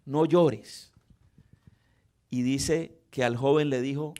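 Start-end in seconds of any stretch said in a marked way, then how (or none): 0.0-0.9 firm no llores, fuller voice and stress on llores; Jesus speaking with authority to the grieving mother: firm, sure. Shown as a demonstration. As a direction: command her, kindly but firmly. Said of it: "Habló con autoridad".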